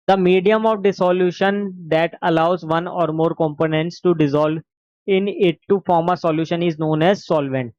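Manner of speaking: slow, deliberate textbook reading; dictation. Acted. Teacher dictating notes to the class, slow and deliberate. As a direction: spell out each phrase for notes.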